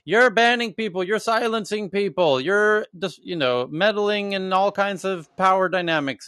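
imitating a heckler shouting from the crowd; retold scream. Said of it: "was screaming in the front row".

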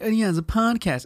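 high-pitched mimicry of a bragging buddy; mocking drunk friend. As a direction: parrot them in a high mocking voice. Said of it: "when they say that, but they're like".

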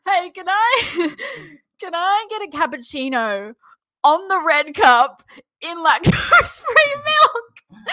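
high, slow mocking voice through laughter; mocking friend's order. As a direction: imitate the clumsy order while cracking up. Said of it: "and then he goes".

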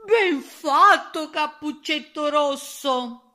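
high, loud, drawn-out cheer; emotional shout. A narrator's reading. Pig cheers the girl who shot the wolf, shouting. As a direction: cry out in moved admiration. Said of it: "gridò".

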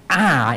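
"I" punched as the key word; emphatic I. Shown as a demonstration. Preacher stressing personal belief over the group's, emphatic "I". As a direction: put firm weight on "I". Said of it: "It's emphatic".

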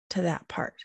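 breathy whispered tag. Real, not acted. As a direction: drop to a whisper. Repeated soft closing phrase.

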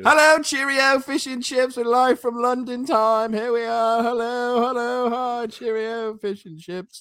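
high-pitched, cartoonish English accent; Peppa Pig. Co-host opening the show from London on request, high cartoon English accent. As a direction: pipe it out in a silly English accent, easing down at the end. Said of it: "do your Peppa Pig crap".

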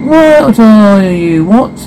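shocked. Acted. Shocked by friend's kiss.

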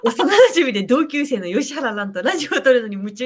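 can't hold back the laughter; laughing while reading. Retold or imitated. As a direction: read through giggles. Reads intro while laughing.

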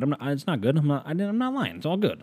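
high, squeaky comic denial; mock defensive. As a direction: protest jokingly, pitch leaping right up. Joking defensive denial of lying.

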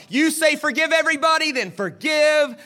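high-pitched, straining taunt; jeering. Acted. Tormentors daring Jesus to forgive, high jeering. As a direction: goad him at the top of your range.

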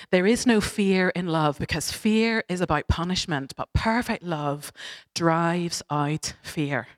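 slow, solemn scripture line; slow it down and let it land; preaching. Real, not acted. Preacher quoting scripture to the congregation, slow and solemn.

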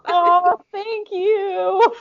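high, cooing thanks; touched and high-pitched; touched gratitude. Real, not acted. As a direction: coo it high, really touched. Touched by a friend's compliment.

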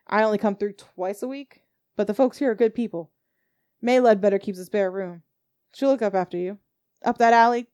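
put-on folksy old driver explaining the breakdown; Silas the coach driver.

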